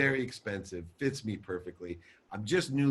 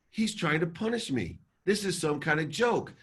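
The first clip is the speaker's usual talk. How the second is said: high, affronted complaint; retold anger; 7 semitones higher than usual. Telling his wife his dad is punishing him, angry. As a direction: re-enact outrage without shouting. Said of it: "my face turn to anger".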